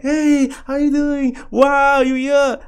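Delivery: high, drawn-out mock surprise; put-on cheery greeting. Greeting the crush at the door, high put-on cheer. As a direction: greet in a high, stretched, fake-casual voice.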